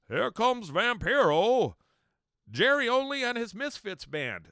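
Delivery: over-the-top arena announcer shout; ring announcer. Retold or imitated. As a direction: bellow it like a wrestling ring introduction. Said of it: "the announcer's out there saying".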